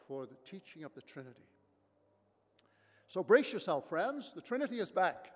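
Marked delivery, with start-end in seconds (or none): 3.1-5.3 brace them, then proclaim it; excited announcement. Real, not acted. Pastor rouses the congregation about the series, excited and loud.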